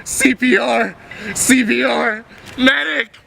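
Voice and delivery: high urgent calls for help; man down shout. Acted. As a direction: shout for a medic. Man down, calling medic.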